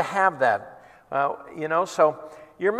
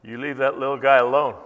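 lower, gruff warning; tough guy; 5 semitones lower than usual. Retold or imitated. Big guy warning the heckler in the alley, menacing. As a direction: lean in and threaten.

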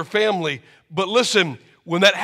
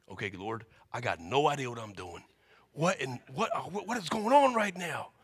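bewildered Moses; 5 semitones lower, 11 dB quieter than usual. Acted. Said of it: "Moses prays confused".

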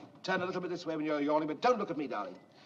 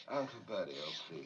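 soft demo; 11 semitones lower, 9 dB quieter than usual. Shown as a demonstration. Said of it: "keep your head there now".

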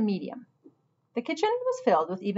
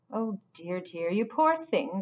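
gushing sympathy; slower than usual. Acted. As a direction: coo over her like a fussing grandmother. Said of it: "gushed Missus Prickles".

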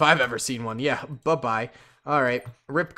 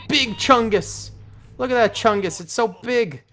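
delighted awe; 8 semitones higher, 4 dB louder than usual. Real, not acted. Marveling at huge unit.

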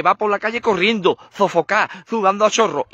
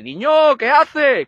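scolding yell; 5 semitones higher, 3 dB louder, much slower than usual. Acted. Father yells at clumsy son.

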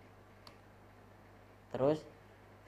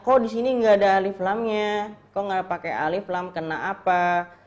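puzzled student; 6 semitones higher, 4 dB louder, faster than usual. Retold or imitated. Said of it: "mungkin teman-teman bertanya".

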